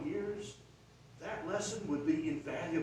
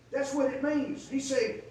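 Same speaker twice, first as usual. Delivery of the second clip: ordinary talk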